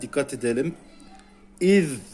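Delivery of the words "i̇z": İz with the tongue bitten, lisped z; teacher showing the interdental z; tongue between teeth. Shown as a demonstration. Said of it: "dilimizi ısırarak iz diyoruz".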